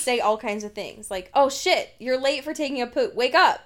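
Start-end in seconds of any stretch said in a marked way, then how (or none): 1.3-3.6 raised, louder mock wake-up alert; playful urgent wake-up call; mock alarm. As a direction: sound a joking alarm to rouse someone. Acting out a joke alarm message.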